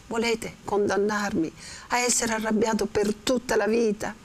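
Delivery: lightly acted angry young man, pleading and protesting; Renzo heated. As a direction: push hard, half angry, half begging. Teacher acts Renzo's outburst.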